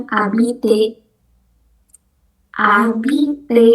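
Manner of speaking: habite tanpa H dan R; habite, huruf depan dan akhir hilang; silent H and R. Shown as a demonstration. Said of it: "H nggak dibaca". (habite tanpa H dan R)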